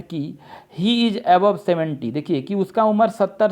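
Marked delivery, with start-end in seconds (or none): 0.8-2.1 he is above seventy said very slowly; slow reading. Shown as a demonstration. Teacher reading the question to the class, very slow. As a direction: read he is above seventy word by word. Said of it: "reading out the sentence".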